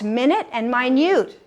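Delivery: MINUTE as MIN-it, then MINUTE as my-NUTE; first minute stressed up front, second minute on the end; shifting stress. Shown as a demonstration. Teacher confirms students' answer, shifting stress on minute. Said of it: "you change the emphasis".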